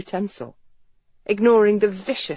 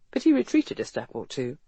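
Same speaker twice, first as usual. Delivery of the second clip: ordinary delivery, nothing marked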